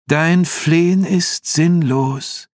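high, slow, commanding demon voice; loud demonic reply. A narrator's reading. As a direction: proclaim it slowly as a scornful demon. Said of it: "antwortete Osaron laut".

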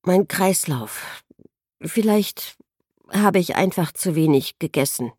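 fumbling for an excuse; stammering. Acted. Dazed patient excusing herself to the doctor, halting and unsure. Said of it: "stammelte Helen".

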